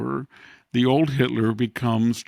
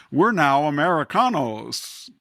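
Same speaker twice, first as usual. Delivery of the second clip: 1 mock Democrat; 4 semitones higher, 4 dB louder than usual. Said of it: "and they say".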